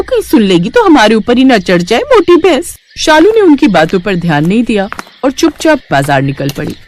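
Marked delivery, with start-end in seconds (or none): 0.0-2.8 mocking taunt. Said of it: "उसे भैंस कहकर चिढ़ाने लगती है".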